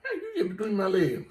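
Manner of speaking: loud call to the dog. Real, not acted. Scolding the dog.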